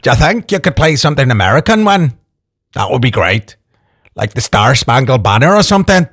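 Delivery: put-on Northern Irish listener's voice; playful Northern Irish impersonation; Northern Irish accent. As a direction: read the request as a Northern Irish caller. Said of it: "Back into character".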